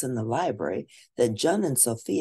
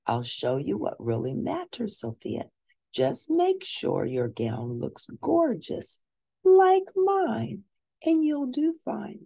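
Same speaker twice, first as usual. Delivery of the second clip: preen like a spoiled princess; vain princess voice; 10 semitones higher than usual. Acted. Amber boasts about her gown.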